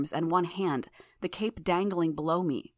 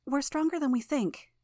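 put-on soft Russian accent, pitched higher; a young girl's gentle Russian accent, set higher; 8 semitones higher than usual. A narrator's reading. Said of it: "her voice soft".

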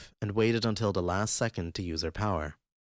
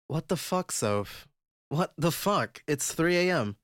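angry; 9 semitones higher, slower than usual. Acted. Emma woken at 3am, angry.

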